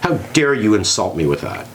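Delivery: hammed-up, offended how dare you; mock indignation. Turning down millions in mock offense, hammed-up indignation. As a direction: play at being insulted by a gift. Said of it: "I'm not gonna say".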